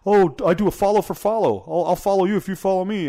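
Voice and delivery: mocking fake-follower hustlers in a whiny voice; mock beggar voice. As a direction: parody a follower-begging podcaster. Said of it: "I could go".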